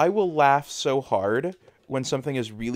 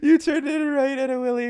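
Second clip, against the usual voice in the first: laughing; 10 semitones higher, 4 dB louder than usual. Real, not acted. Laughing fit on stream.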